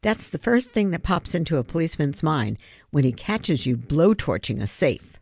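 dry, mocking jab at the obvious; sarcastic. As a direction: say it with a sarcastic sneer. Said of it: "Savannah said sarcastically".

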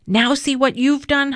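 high, accusing cry. A narrator's reading. Hamudi accusing Avi of chasing the cat off. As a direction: blame him for scaring the cat. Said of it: "Hamudi accused".

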